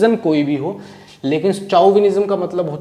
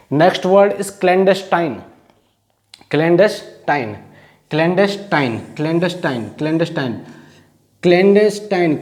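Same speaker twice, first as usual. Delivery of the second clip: very slow, drawn-out word; slow, deliberate teacher announcement; slow announcing; much slower than usual. Shown as a demonstration. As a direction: stretch the new word out for the class.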